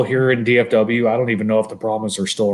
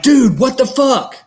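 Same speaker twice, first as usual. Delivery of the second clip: mock outraged yell; 13 semitones higher than usual. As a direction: squeal it like a betrayed buddy. Friend angrily retells missed call.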